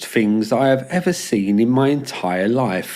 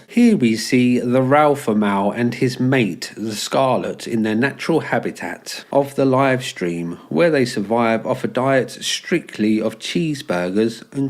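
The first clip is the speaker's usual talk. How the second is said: nature documentary; 2 semitones lower than usual. Pretend. Mock wildlife narration of streamers.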